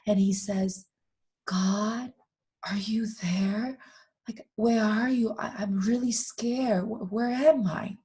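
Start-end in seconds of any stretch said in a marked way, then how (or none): 1.5-8.0 high, half-whispered frightened pleas; a touch of fear, lost in the dark; scared little soul. Acted. Frightened little soul calls for God in the dark, high half-whisper. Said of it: "this little soul was so scared".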